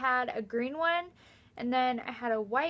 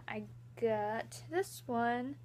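whispering; 10 dB quieter, slower than usual. Real, not acted. Whispered aside.

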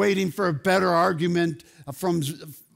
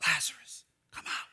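unvoiced hushed "Lazarus, come out."; whisper; 3 semitones lower, 9 dB quieter, faster than usual. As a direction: breathe the words without voice. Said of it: "Jesus whispered".

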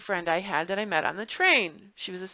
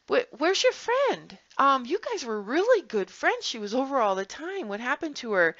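curious neighbour; 4 semitones higher than usual. Retold or imitated. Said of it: "one day I say to her".

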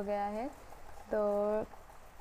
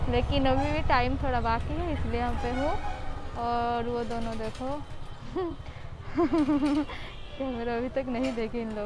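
muffled behind fabric mask; mask-covered mouth speech; through a cloth mask; 4 semitones higher, 5 dB louder than usual. Real, not acted. Seen 0: Checked cloth mask covers her mouth and nose through all frames.

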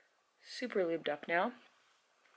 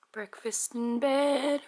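slow, higher, savoured reveal; drawn-out announcement; 5 semitones higher, much slower than usual. Real, not acted. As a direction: stretch it out like a treat. Proud reveal of breakfast tray.

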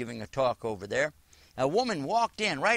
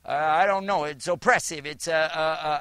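flustered stammer; 5 dB louder than usual. Retold or imitated. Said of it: "She said".

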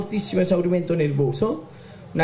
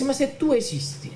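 crying out to God; 5 semitones higher than usual. Retold or imitated. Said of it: "per la prima volta gridai al Signore".

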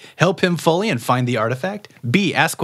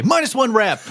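sing-song announcement; 9 semitones higher than usual. Acted. Announcing penalty.

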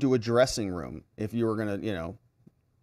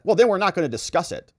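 brisk dismissal; 4 semitones higher, 3 dB louder, faster than usual. Retold or imitated. Acted judge's quick dismissal.

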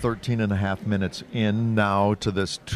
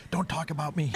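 annoyed Sarah; 8 semitones higher than usual. Retold or imitated. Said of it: "and she's like".

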